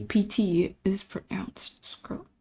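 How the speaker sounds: P T is pronounced Skrill, whispered slowly to herself; working out pronunciation. Shown as a demonstration. Streamer puzzling over a username, slow whisper. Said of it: "But the P".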